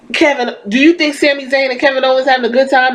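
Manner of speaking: lightly imitating Sami Zayn, fast; quick light Sami Zayn impression. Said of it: "in the voice of Sami Zayn".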